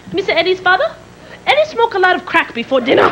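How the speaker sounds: questioning, in a put-on East Asian accent; imitated East Asian accent. Housekeeper asks father, in imitated East Asian accent. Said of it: "a little Oriental woman".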